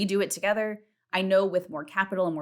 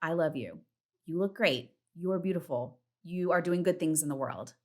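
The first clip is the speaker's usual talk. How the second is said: gentle self-affirmation. Retold or imitated. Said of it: "look in the mirror and be like".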